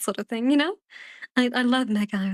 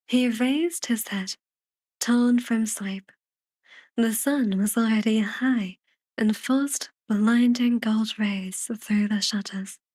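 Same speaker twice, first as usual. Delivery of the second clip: measured, unhurried audiobook reading; lightly storytelling, phrase by phrase; story narration. A narrator's reading. Reads the story narration aloud.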